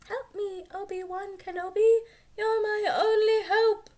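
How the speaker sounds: high, pleading princess voice; high desperate plea from a hologram; Leia voice. Acted. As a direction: beg for help in a high young woman's voice. Leia's recorded plea voiced.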